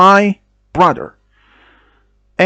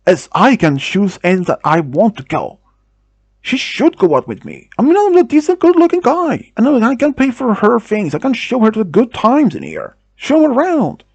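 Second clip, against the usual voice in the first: boastful mock anger that climbs much higher; an imitated pushy guy bragging, pitched up; angry tone; 5 semitones higher than usual. Creep brags to the girls that he can pay, mock angry. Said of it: "he said more as angry tone".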